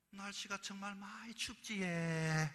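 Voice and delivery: slow, insistent Gyeongsang hint; pointed Gyeongsang hint. Retold or imitated. Woman hinting to her Seoul date again, slow and insistent. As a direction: lean on each word to drop the hint. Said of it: "한 번 더 물어봤습니다".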